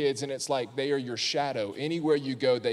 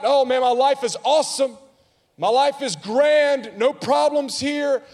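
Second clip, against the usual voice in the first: mock cheerfulness; 10 semitones higher, 6 dB louder than usual. Mocking fake happy Christian.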